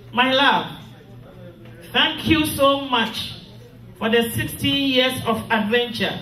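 solemn graveside address; mournful eulogy. Acted. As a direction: speak each line of farewell with heavy sorrow. Widow reads eulogy to husband.

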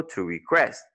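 "request" stressed on QUEST; light RE, strong QUEST in "request"; second-syllable stress. Shown as a demonstration. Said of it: "on the second".

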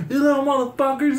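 high-pitched imitation of an angry dad yelling; retold yelling. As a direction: holler it like a mad dad across the street. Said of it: "this fool's yelling at my homies".

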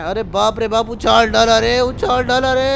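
loud, high excited holler; excited yell. Real, not acted. Gamer yells while bombs keep bouncing him, loud and high. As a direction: shout it as the blast throws you.

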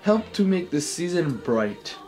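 song lyrics recited as solemn verse; mock poetry reading. Host reads a pop Christmas song as great poetry, mock-earnest recital. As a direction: recite it line by line with theatrical pauses. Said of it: "to do another poetry reading".

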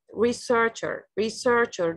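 "researcher" as re-SEARCH-er; careful teacher's demo of "researcher", middle syllable strongest; stress on second syllable. Shown as a demonstration. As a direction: lean on SEARCH in "researcher", then fall. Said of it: "The stress is on the second syllable".

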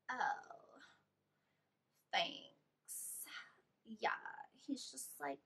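soft, trailing, lightly voiced indifferent roommate; unbothered shrug. Roommate brushing off the news about her ex, soft indifferent shrug.

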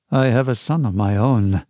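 a lightly voiced sly old seaman; a hint of a fawning pirate, low; Black Dog. Fawning pirate coaxing the boy, lightly voiced.

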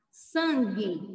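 "Sangue" with a hard G and silent U, SAN-ghi; U mudo. Shown as a demonstration. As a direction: say "Sangue" without any W sound. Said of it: "você não fala sangue". ("Sangue" com o U mudo)

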